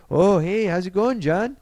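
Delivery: high, chirpy greeting; friendly border officer. Retold or imitated. Border control greeting a returning star, high friendly voice. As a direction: greet him with pitch well up.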